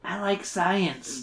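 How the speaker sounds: mild, slow cheer; cheerful. Acted. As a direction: draw it out with understated cheer. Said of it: "I said cheerfully".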